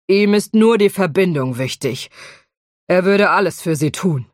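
sober dragon in precise British English; a hint of crisp British accent. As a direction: dragon warning about Stone, British accent. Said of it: "einen gestochenen britischen Akzent".

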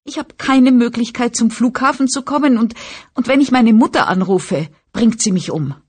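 put-on high whine, helpless girl complaining; whining voice. A narrator's reading. Franny's voiced pleading.

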